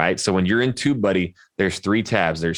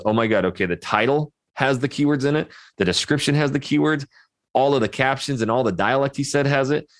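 higher-pitched, mock-amazed checklist of finds; lightly voiced YouTube; 5 semitones higher than usual. Host plays YouTube scanning his video, lightly mock-amazed. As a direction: lightly act out an algorithm ticking off keywords. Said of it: "now YouTube in a flash of a second goes".

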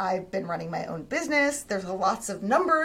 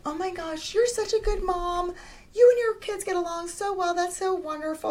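much higher, sweet complimenting voice; gushing friend; 9 semitones higher than usual. Retold or imitated. Friend praising a mom's parenting in a sweet high voice. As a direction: coo praise at a mom. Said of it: "a friend is like".

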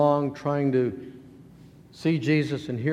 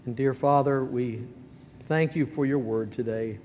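public prayer; 2 semitones lower than usual. Real, not acted. Pastor praying to the Father for the congregation, measured prayer.

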